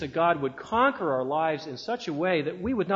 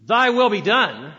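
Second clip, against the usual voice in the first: said with bitter resentment, a little louder; 3 semitones higher, 4 dB louder than usual. Shown as a demonstration. Preacher showing how bitter prayer sounds, bitter resentment. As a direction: spit it out with grudging bitterness. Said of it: "with a tone of bitter resentment".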